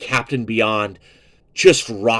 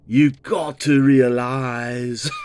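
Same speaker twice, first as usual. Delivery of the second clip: put-on very slow British accent breaking into a laugh; much slower than usual. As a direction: drag it out in a fond British imitation, laughing. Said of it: "Willie DeFern sounds so British".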